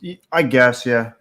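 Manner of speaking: talking around a lip of chew; words muffled by tobacco. Real, not acted. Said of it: "I put a chew in my lip".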